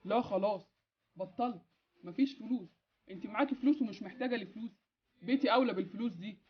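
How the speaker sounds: muffled voice over a phone line. Acted. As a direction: heard through the phone. Boss speaking over phone.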